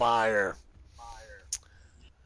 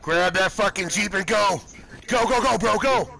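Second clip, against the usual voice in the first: high, pressing game callout; urgent urging; 8 semitones higher than usual. Real, not acted. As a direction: urge your teammate to bolt, pitch raised. Urging teammate to escape in jeep.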